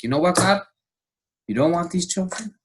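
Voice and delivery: loud and high, hurling it at God; angry outburst at God. Retold or imitated. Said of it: "like, screaming at God".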